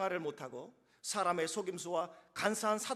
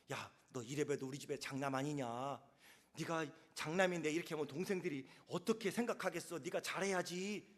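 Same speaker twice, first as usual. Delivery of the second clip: softer, lower coaxing of an eldest son; coaxing parent; 4 semitones lower, 4 dB quieter than usual. Retold or imitated. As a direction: sweet-talk the first-born into behaving. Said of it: "방향을 바꿔줘야 돼요". (장남을 달래는 낮은 목소리)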